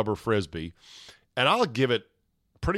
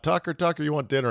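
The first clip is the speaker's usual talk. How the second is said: 1 mild retold call; 4 semitones higher, faster than usual. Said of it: "So she yelled out".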